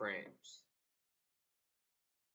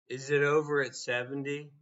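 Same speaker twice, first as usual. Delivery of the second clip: 1 indignant; 6 dB louder, faster than usual. Real, not acted. Angry rhetorical challenge.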